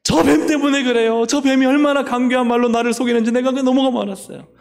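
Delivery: high, loud whiny excuse; Eve blaming. Acted. Eve excusing herself before God, high and loud. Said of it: "하와야, 너 왜 따먹었냐".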